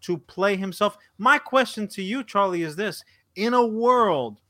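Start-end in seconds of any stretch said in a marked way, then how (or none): 3.4-4.4 horror trailer voice. Pretend. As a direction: announce it like a movie trailer. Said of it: "movie trailer opener".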